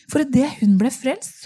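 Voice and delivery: ordinary talk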